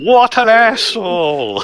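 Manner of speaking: high, slow outraged cry; shocked outburst. Real, not acted. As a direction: blurt it out in disbelief. Outraged reaction to coworker.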